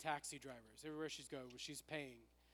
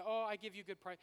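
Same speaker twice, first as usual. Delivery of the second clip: put-on broken English accent; 5 semitones higher, 5 dB louder than usual. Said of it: "We say".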